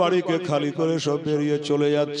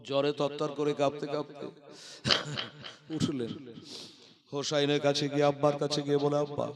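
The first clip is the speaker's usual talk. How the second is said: much softer, near-murmured narration; hushed telling; 10 dB quieter than usual. A narrator's reading. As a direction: tell it gently as if by a sickbed. Sick girl rising, told hushed.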